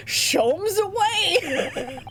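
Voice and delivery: grand, stretched-out sign-off; flamboyant detective exit. Acted. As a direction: draw it out into a theatrical send-off.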